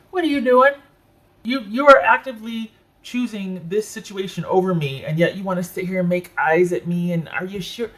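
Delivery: high-pitched, worked-up scolding that eases slightly; indignant confrontation. Acted. Reader voicing a partner who feels passed over, indignant. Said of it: "now I'm mad".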